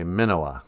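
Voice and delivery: short first vowel in "Minowa"; White Earth pronunciation. Shown as a demonstration. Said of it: "with just one N".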